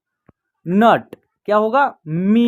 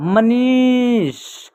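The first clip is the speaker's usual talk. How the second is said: slow careful reading; 2 semitones higher, much slower than usual. Shown as a demonstration. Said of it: "क्या उच्चारण होगा?".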